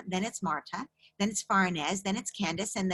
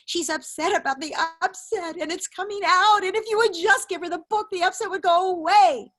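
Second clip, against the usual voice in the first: emphatic; 11 semitones higher, 8 dB louder than usual. Real, not acted. Emphatic explanation to mother.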